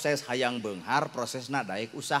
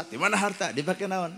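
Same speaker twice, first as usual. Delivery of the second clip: angel questioning; 6 semitones higher than usual. Acted. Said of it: "Coba nu sangsara".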